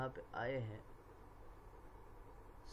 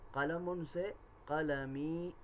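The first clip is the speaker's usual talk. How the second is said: slow demo word; 3 semitones higher, slower than usual. Shown as a demonstration. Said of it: "صرف یا کا اضافہ کر دیں".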